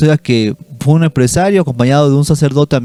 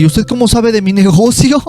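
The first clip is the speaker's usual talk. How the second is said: high, rising incredulous question; astonished; 8 semitones higher than usual. Retold or imitated. Businessman astonished the priest knows his business, imitated amazement. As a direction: imitate someone dumbfounded at being found out. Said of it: "se queda así como que".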